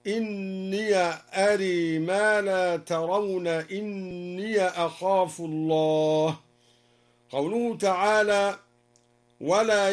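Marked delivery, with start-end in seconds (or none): 0.1-6.4 "إني" as inniya, in slow recitation; open ya. Shown as a demonstration. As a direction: add a short a after each "إني", drawn out. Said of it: "وفتح الياء من قوله تعالى". (فتح ياء "إني" بترتيل متمهل)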